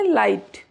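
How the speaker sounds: "लाइट" with no GH sound before the T; silent GH. Shown as a demonstration. Teacher answering how to read it, "लाइट" with silent GH. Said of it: "नहीं पढ़ेंगे".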